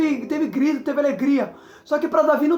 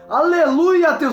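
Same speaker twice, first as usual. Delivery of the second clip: loud hallelujah; 2 semitones higher, 5 dB louder, much slower than usual. Real, not acted. Preacher rousing the congregation, loud exultant praise. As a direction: burst out in praise to the church.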